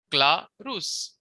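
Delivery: Clarus with the accent on CLA, the first syllable; stress on CLA. Shown as a demonstration. Teacher showing where Latin accents fall, stress on CLA in Clarus. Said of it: "The accent is on cla".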